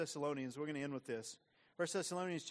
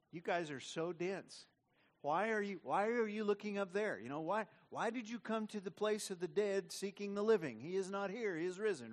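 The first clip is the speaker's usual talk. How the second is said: mock exasperated angels, slightly higher; angels scolding; 4 semitones higher than usual. Angels scolding the gaping disciples, exasperated. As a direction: chide them for staring at the sky. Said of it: "These angels are going".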